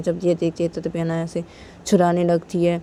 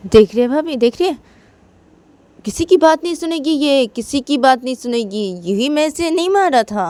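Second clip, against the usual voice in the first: put-on higher, sharp scolding of a stubborn girl; angry scolding; 4 semitones higher than usual. Tisha complaining to sister-in-law, angry and raised. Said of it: "तो तिशा बोलती है".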